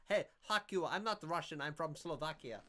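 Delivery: hammed-up offended retort; mock pissed off. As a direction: hit back loudly, then ease off. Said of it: "she used to get so pissed off".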